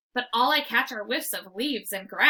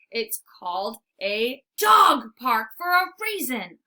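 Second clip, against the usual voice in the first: growl; 6 dB louder than usual. Acted. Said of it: "I growl".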